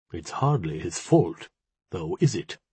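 mildly sympathetic, gentle interjection. A narrator's reading. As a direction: gently come to his defence. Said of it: "put in sympathetically".

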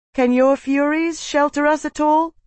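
high, sustained questioning voice; urgent plea. A narrator's reading. Slave asks Tavi for shelter in the storm, high urgent plea. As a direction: call the question out high, rising to the end.

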